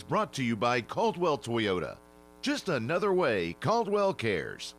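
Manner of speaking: polished radio sponsor read. Acted.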